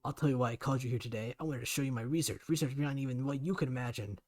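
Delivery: loud, bitter ranting father; furious tirade. Acted. Father ranting at daughter about his research, loud and bitter. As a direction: spit out his resentment.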